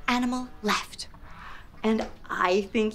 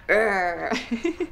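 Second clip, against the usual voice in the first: low mock dog growl breaking into a laugh; playful low growl; silly growl; 4 semitones lower than usual. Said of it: "That was a silly growl".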